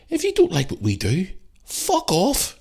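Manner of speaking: high, heated fuck off; a real burst of anger at critics; angry outburst. Real, not acted. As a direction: snap back at the trolls. Angry rant at online trolls.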